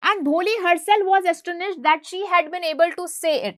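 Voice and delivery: slow, deliberate read-aloud of the English text; slow textbook reading. A narrator's reading. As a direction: read each word out slowly for the class.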